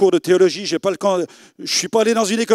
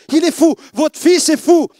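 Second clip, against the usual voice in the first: alarmed cry; 8 semitones higher, 5 dB louder than usual. Retold or imitated. Witch crying out in alarm.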